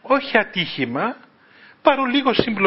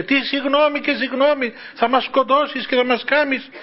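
angry yell; 7 semitones higher than usual. Retold or imitated. Man raging at the young driver.

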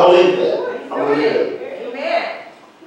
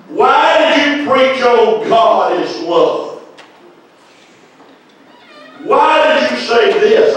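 slow, higher wondering questions; puzzled questioning; 8 semitones higher, slower than usual. Retold or imitated. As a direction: ask it slowly, higher, bewildered. Retold inner questioning, slow and high.

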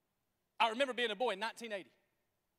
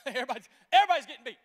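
laughing; 3 semitones higher, 11 dB louder, much faster than usual. Real, not acted.

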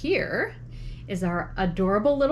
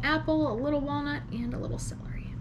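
whispering; 6 semitones higher, 5 dB quieter, faster than usual. Real, not acted. Whispers while building a bite.

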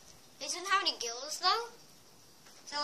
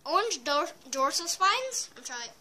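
talking with gum in mouth; words round a piece of gum; chewing gum. Real, not acted. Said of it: "I have gum in my mouth right now".

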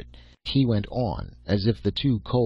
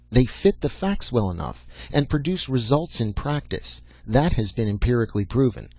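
lightly voiced professor, somewhat higher and emphatic; lecturing old professor; 4 semitones higher than usual. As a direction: lay down the theory like an exacting old scientist.

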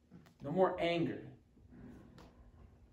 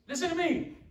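much higher put-on grumbling grandpa voice; imitating grandpa; 11 semitones higher than usual. Preacher to congregation, mock grandpa scolding the kids, much higher. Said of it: "Sounds like grandpa every day dealing with those kids".

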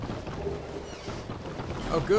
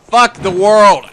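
loud, slow, higher curse; fed-up gamer rage; furious outburst; 6 semitones higher, 9 dB louder, slower than usual. Real, not acted. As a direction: curse everything, stretching each word. Giving up in rage.

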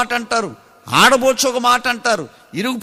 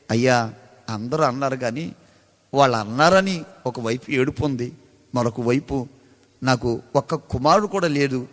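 sorrowful mother; 10 semitones lower than usual. Retold or imitated. Childless mother answers, weeping.

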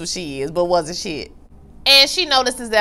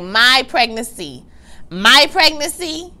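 slow, rising louder the second time; indignant disbelief; 4 semitones higher, 3 dB louder, slower than usual. Retold or imitated. Serena questioning his claim, in slow, offended disbelief. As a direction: repeat it, offended. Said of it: "She was like".

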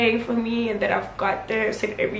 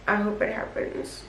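whispered hope; 6 dB quieter than usual. Real, not acted. Quiet hopeful wish.

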